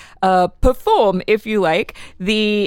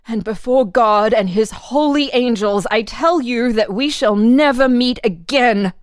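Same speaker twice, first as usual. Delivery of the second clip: put-on higher, solemn and firm young girl; earnest young woman; 4 semitones higher than usual. Marie telling Antoine they will never meet again, solemn and firm. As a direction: swear before God it's over.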